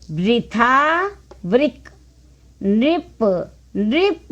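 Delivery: each word apart with a clear ri; ri-vowel drill. Shown as a demonstration. Teacher reading ri-sign words for learners, word drill. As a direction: separate words, ri sounded as in मृदु.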